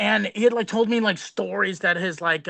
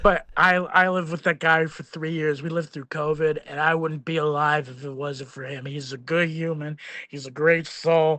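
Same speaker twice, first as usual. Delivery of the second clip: put-on drunk slurring; 2 semitones lower than usual. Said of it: "You're hammered, slurring your words?".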